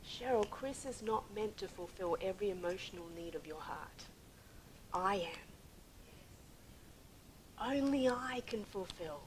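soft, measured, loving voice; God, gentle. Retold or imitated. The Lord correcting a wife, gently and lovingly. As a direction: let each phrase settle gently, with long pauses. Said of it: "he said it so gently".

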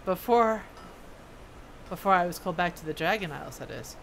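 lightly voiced dwarf recounting old history; reminiscing dwarf smith. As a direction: tell it as a veteran craftsman remembering.

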